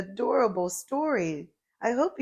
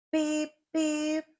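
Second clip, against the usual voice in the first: truck horn beep; 9 semitones higher than usual. A narrator's reading.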